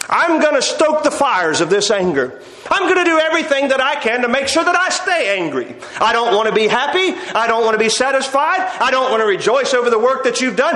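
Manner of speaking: stubborn, defiant insistence, lightly acted; mildly acted anger. Preacher voicing Jonah clinging to his grudge, mildly angry. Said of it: "he just says, ... I have the right to be angry".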